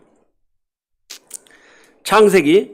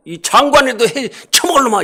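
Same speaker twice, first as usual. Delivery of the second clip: mock scolding blessing; 3 semitones higher than usual. Shown as a demonstration. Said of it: "이렇게 얘기를 해야지".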